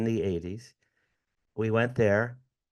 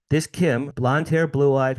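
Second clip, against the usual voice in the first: excited emphasis; 4 semitones higher, 6 dB louder than usual. Real, not acted. Realizing the coincidence of names.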